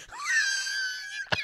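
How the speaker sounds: high squealing laughter; shrieking laugh. Real, not acted.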